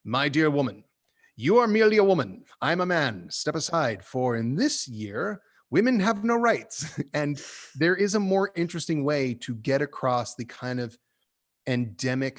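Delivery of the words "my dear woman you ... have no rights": a hint of a pompous Victorian man lecturing a woman; mock-pompous condescending gentleman, lightly voiced; hammed-up patriarch dismissing a woman; bad man speech. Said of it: "bad man speech".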